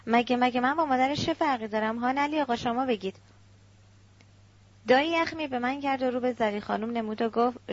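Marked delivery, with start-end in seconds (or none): 0.1-3.2 mild put-on weeping, halting start; fake crying. Stepmother appeals to Ali, lightly faking tears. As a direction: plead with a touch of fake tears. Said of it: "گریهٔ مصنوعی را سر داد".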